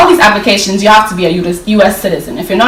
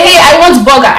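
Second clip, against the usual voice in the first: attempting an American accent to order; forced American accent; 2 semitones higher, 3 dB louder than usual. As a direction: put on a careful, imitation American accent. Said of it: "try to force their accent".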